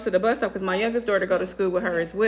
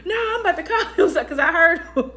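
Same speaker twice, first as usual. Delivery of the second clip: laughing; 6 semitones higher than usual. Real, not acted.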